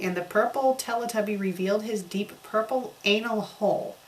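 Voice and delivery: usual speaking voice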